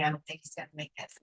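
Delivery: whispered doctor's verdict; breathless hushed retelling of the doctor's words. Retold or imitated. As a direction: drop to a whisper for the bad news. Doctors' grim news, retold.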